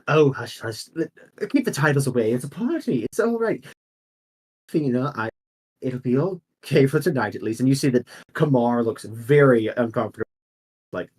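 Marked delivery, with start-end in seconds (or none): 0.1-7.6 playful noble lady. Acted. Lady waves off titles.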